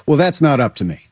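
understated, resigned stepdad. Acted. Guest as coach stepfather passing the decision on, resigned. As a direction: give in mildly, in an everyday pitch. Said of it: "he's accepted, like".

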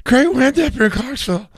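high put-on voice of the coach greeting the crowd; coach impression. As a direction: chirp it like a sheepish coach. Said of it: "He's like".

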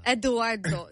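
lightly put-on Italian accent; playful Italian accent. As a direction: say the name with a playful Italian lilt. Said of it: "fun to say with the accent".

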